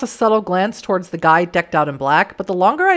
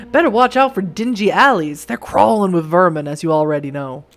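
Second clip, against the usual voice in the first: lightly put-on Western warning; stranger's veiled threat in a mild Western accent; a hint of Western accent, pointed. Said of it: "gave him a Western accent".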